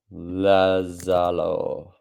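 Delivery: slow, drawn-out mock Italian accent on "Lazaro". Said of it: "That's my Italian accent for, for you".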